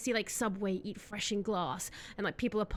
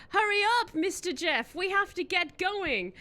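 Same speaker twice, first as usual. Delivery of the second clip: high, urgent little sidekick voice; Reginald the imp; 8 semitones higher than usual. Acted. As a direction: squeak at the boss to hurry. Sidekick imp urges Jeff.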